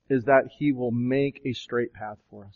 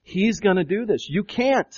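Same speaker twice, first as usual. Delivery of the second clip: "He's" stressed against "You", pitched higher; raised, emphatic "He's" and "You can't"; emphatic contrast; 5 semitones higher than usual. Shown as a demonstration. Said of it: "It's emphasized in the original language".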